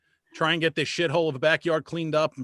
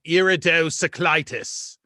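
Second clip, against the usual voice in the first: imitating the kid; 5 dB louder, slower than usual. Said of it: "just the way he says it".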